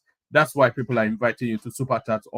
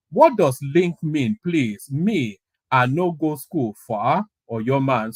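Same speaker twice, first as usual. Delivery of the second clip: pidgin English; slower than usual. Retold or imitated. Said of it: "it says".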